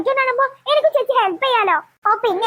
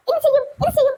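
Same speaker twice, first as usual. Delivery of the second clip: higher mocking echo of the panicky sister; mocking imitation; 5 semitones higher than usual. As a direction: parrot her fretting back at her. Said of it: "എന്ന് പറഞ്ഞ് നിൽക്കല്ല".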